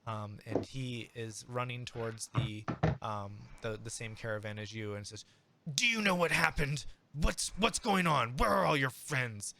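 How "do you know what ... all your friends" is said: higher, louder anxious questioning; worried Chaz. Acted. Worried Chaz pressing the player for answers. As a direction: fret at the player about the missing friends.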